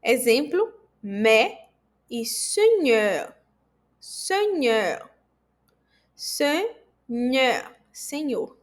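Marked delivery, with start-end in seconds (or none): 2.2-7.8 seigneur with a closed e; teacher repeats the word; French word demo. Shown as a demonstration. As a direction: drill seigneur slowly. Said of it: "tem som de E".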